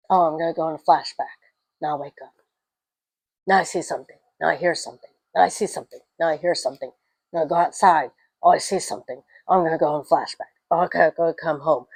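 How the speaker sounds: a mildly bored, sing-song mock of the plot; mocking the movie hero. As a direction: parody of a repetitive horror lead. Mocking the repetitive film hero.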